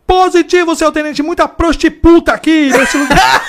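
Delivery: high, loud report breaking into laughter; laughing old cop. Retold or imitated. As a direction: mangle the word and crack up. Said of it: "Aí o tenente falou".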